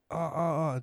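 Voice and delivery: high-pitched imitated cries at talking volume; mock scream. Retelling how the shot man cried out, mock screaming. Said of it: "he was screaming".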